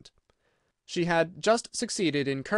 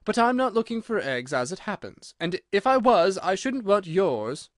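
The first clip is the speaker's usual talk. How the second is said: put-on high little-girl rebuttal, growing louder; defensive Alice; 5 semitones higher, 4 dB louder than usual. Alice disowns the pigeon's eggs, high and defensive. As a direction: answer back firmly as Alice.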